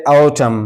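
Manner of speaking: ऑटम ending on the M, no N sound; silent N. Shown as a demonstration. Teacher models autumn for learners, ऑटम with silent N. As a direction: say ऑटम with the final N left silent. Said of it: "तो एन हमेशा silent रहता है".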